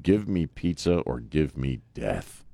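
slow, low declaration; solemn slogan. Acted. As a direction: declaim it gravely as a creed. Recites the mock creed.

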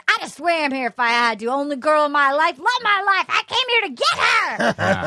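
acted-out desperate suitor; impassioned declaration. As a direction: pitch climbing through a mock romantic outburst. Acts out impassioned declaration of love.

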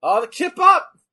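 high, loud thrilled shout; excited cheer. Real, not acted. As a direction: cheer the move out. Cheering a wrestling move.

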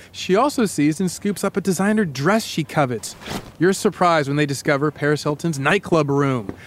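lightly dramatic storytelling; story narration. Acted. Host casts co-host as a door key, lightly dramatic story narration. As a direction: narrate it as a suspenseful tale told to the listener. Tells a second-person scene.

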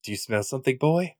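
high, excited dog-owner voice; like calling out to Lassie; talking to a dog. Pretend.

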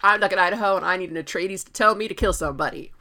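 loud, eager mock-berserker boast; berserker Duncan. Imitating Duncan as a berserker, loud and eager. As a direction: play a bloodthirsty swordsman begging for orders. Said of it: "got berserker in his tone".

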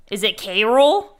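"Carol" drawn out slowly as CARE-ul; slow, questioning "Carol" to make a point; pointed mispronunciation. Shown as a demonstration. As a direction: stretch "Carol" with a rising end. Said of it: "what is my best friend's name?".

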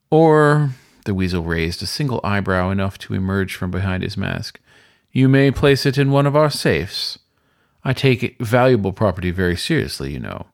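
a polished concierge hinting at something; lightly voiced sly weasel; suave weasel host. Weasel host suggests the safe.

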